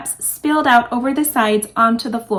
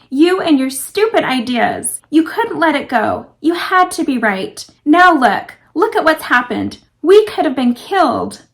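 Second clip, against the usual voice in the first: upset, tearful blaming, louder; angry tearful outburst; 3 semitones higher, 3 dB louder than usual. Acted. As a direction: scold him through near tears. Celeste blames Wes, near tears.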